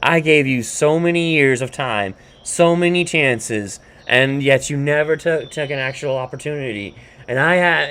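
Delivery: retold scolding, pushed a little; mock angry tirade. Woman going off on her man, mock tirade. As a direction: let loose a list of grievances, half-acted. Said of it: "goes off on him".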